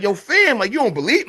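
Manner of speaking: high, put-on protest; indignant. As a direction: imitate a man offended at being doubted. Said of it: "now he getting indignant".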